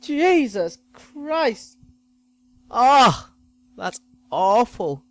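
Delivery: high, loud shocked shriek; a doctor shrieking, then slow dragged-out Jesus Christ. Retold or imitated. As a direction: shriek in horror at the sight. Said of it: "he just shrieked".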